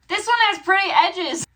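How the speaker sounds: high, loud delighted squeal; delighted exclaim. Real, not acted. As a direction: gush over the pretty book. Delighted unboxing of the third book.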